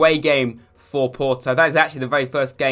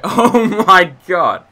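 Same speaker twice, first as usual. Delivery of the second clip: laughing disbelief; 5 semitones higher, 8 dB louder, much slower than usual. Real, not acted. Laughing after near miss.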